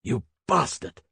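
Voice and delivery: shouted insult. A narrator's reading. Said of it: "shouted Hals".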